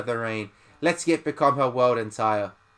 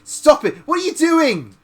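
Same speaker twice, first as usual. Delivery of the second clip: very high, frantic yelp; bully in pain begging her to stop; panicked; 13 semitones higher, 5 dB louder than usual. Acted. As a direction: plead in shrill panic.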